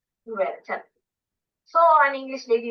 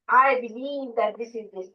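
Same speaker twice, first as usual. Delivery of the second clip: slow mock politician; slower than usual. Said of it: "a politician comes up and gives a lecture".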